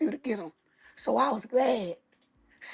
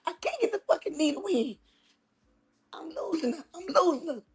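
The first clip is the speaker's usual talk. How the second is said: nervous nurse; 4 semitones higher than usual. Retold or imitated. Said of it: "The woman was so nervous".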